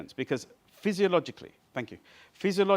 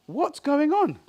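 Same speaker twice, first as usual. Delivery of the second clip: mock puzzled; 14 semitones higher, 8 dB louder, much slower than usual. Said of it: "came up and said".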